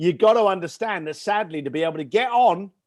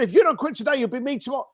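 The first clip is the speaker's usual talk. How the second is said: excited retelling; 6 semitones higher, much faster than usual. Retold or imitated. Boy repeating granddad's words excitedly.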